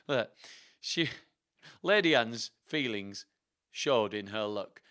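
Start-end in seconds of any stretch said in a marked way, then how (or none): none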